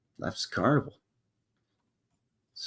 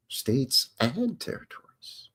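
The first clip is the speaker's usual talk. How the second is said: whisper; 2 semitones higher, 9 dB quieter, slower than usual. Real, not acted. Musing over Australia's states.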